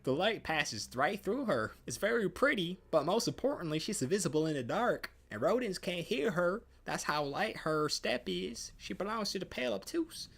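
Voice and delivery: put-on a kid who can't contain the wonder; excited kid. Child describes the invisible cat to the visitor, high and excited.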